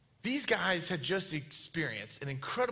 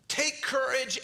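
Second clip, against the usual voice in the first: higher-pitched, lightly projected command; mild raised call; 5 semitones higher, slower than usual. Acted. Jesus calling to frightened disciples on the lake, mild call. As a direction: call it out without really shouting. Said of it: "shouts that".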